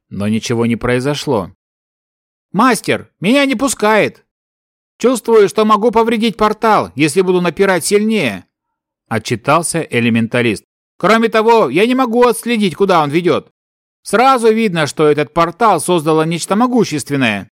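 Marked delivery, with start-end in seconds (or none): 2.5-8.5 elder elf voice. Acted. Elder elf reports to patriarch. 11.0-17.5 elder elf voice. Acted. Elder elf reports to patriarch.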